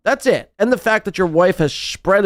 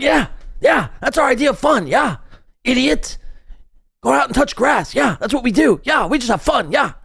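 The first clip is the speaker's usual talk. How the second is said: mock smug partygoer; 6 semitones higher than usual.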